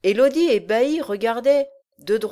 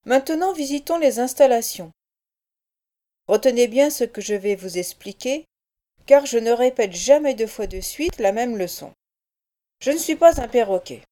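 lightly voiced menacing giant; a brute laying down the law; gruff giant; 4 dB louder than usual. Bolbec guides the tour.

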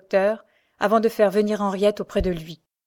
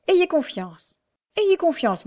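higher-pitched, insistent encouragement; earnest reassurance; 8 semitones higher, slower than usual. Acted. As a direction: urge trust, each plea starting high and falling. Doctor urgently reassures his young protégée. (rassurant et insistant)

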